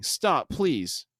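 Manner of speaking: plead, lightly acted; understated retold begging. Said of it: "Ryan is still begging".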